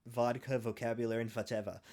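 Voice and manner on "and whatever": put-on whatever as fatever in a German accent. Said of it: "whatever in a German accent".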